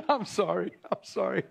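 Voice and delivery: laughing through an apology; can't hold back the laugh; real laughter. Real, not acted. Laughs at own joke.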